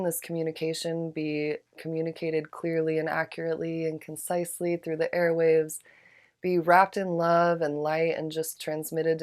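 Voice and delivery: measured, reverent prayer voice; invocation prayer. Acted. Opening prayer over a candle.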